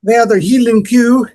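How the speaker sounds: hint of a Scots lilt on cow; lightly mock Scottish Highland cow; Scottish accent. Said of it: "the Scots".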